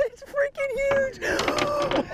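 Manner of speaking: high, slow, thrilled shout; excited shout. Real, not acted. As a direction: yell it out in disbelief. Landing a huge fish.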